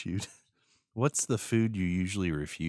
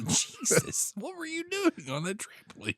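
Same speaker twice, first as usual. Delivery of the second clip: laughing. Real, not acted. Laughs at broken arm story.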